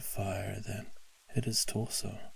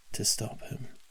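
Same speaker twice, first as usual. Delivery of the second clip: ordinary delivery, nothing marked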